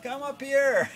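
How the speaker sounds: imitating a lady hollering to someone below; calling down. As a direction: call out from an upstairs window. Lady calls from third floor window.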